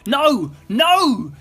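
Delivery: high, loud panicked scream. A narrator's reading. Scrooge dragged away by the ghost, screaming. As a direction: cry out as if being dragged away. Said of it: "screamed Scrooge".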